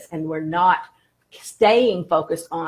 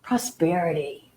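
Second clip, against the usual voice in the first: savoring the word; 2 semitones lower, 4 dB quieter than usual. Shown as a demonstration. Teacher guiding listeners to feel prosperity, savoring softly. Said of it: "Just kind of feel into that".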